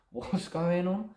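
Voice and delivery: high, slow, drawn-out bewildered question; stunned, frozen. Acted. Daisy frozen after being thrown out, stunned. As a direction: stretch it out, rising, as if frozen in shock. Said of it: "She's frozen in time".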